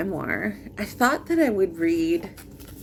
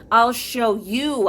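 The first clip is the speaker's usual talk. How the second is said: slow, louder, higher defiant declaration; defiant vow; 4 semitones higher, 6 dB louder, slower than usual. Acted. Poet quoting own vow against someone, defiant. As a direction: draw out the threat with relish. Poem voices a spiteful vow.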